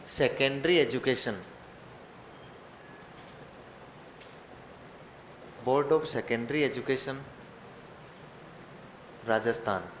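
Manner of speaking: very slow, word by word, so the class can write; slow dictation. Shown as a demonstration. Teacher dictating the board's name to the class, very slowly. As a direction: spell out "Secondary Education" slowly for note-taking.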